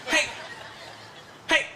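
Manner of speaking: slow, drawn-out joke in a mock Chinese accent; Chinese comedian accent. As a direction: do a hammed-up Chinese-accented stand-up comic. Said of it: "I kept picturing a Chinese comedian".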